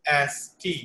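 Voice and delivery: एस टी, both syllables distinctly sounded; joined syllables. Shown as a demonstration. Translator shows how to read it together, clear demonstration of एस टी. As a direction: model एस टी as one word, clearly. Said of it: "इसको हम कैसे इकट्ठा पढ़ेंगे".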